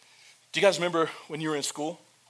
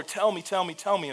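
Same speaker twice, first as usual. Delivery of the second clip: mock pleading; 5 semitones higher than usual. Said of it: "crying on his shoulder".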